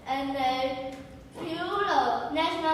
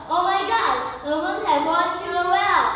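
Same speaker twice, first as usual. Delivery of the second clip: higher, a bit louder excited cry; little monkey shouting down the well, amazed; 4 semitones higher, 5 dB louder than usual. Acted. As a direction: call out in amazed alarm. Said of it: "He looked into the well and shouts".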